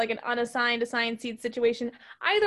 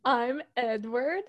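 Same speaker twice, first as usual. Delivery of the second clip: slow, hammed-up German-sounding attempt at an American accent; mock a German boy badly passing as American, lifting at the end; overdone bad American accent with a German tinge; Robert Pattinson; 4 semitones higher, slower than usual. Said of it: "Robert Pattinson's American accent".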